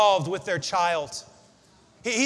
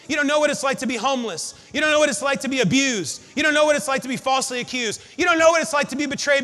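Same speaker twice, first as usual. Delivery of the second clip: mounting complaint. Acted. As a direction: build the grievance line by line until you're shouting. Voicing people's complaint to God.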